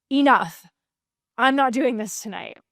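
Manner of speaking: non-negotiable command; firm authority. Shown as a demonstration. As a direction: shut it down firmly. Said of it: "you say it with authority".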